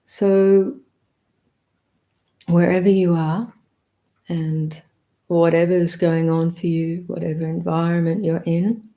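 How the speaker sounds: unhurried meditation guidance, a touch fuller; guided meditation. Acted. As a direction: open the meditation gently, inviting everyone in. Begins leading the meditation.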